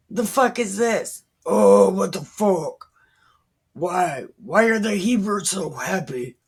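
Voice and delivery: hammed-up confused outrage at the noise; baffled Philistines. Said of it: "they said".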